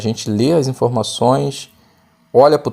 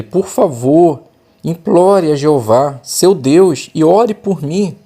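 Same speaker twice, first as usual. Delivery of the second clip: slow, higher begging plea; pleading; 5 semitones higher, slower than usual. Shown as a demonstration. Teacher demonstrating the desperate king pleading with the prophet, slow high plea. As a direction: beg for help, drawn out and urgent. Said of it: "olha só o pedido dele".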